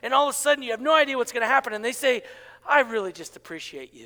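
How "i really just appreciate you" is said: sincere appreciation. Acted. Voices the person at the meeting.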